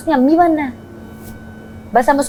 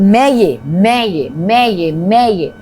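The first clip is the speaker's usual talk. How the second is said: mocking repetition; 3 semitones lower, much slower than usual. Mocking a housemate who keeps repeating herself, insistent. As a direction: repeat it like a stuck record, mock insistent. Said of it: "वो बार बार एक ही बात बोल रही है".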